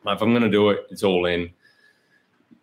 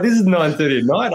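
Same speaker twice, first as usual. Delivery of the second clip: retold disbelief; 9 semitones higher, 6 dB louder, faster than usual. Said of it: "I'm like".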